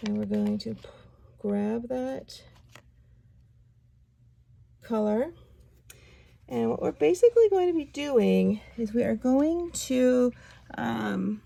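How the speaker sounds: raspy after-surgery voice; rough, strained throat; hoarse voice. Real, not acted. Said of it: "sorry about my voice".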